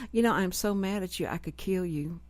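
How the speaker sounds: a flat, emotionless mock of joy; deadpan monotone. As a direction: say the happy words with zero feeling. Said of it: "it was the same tone".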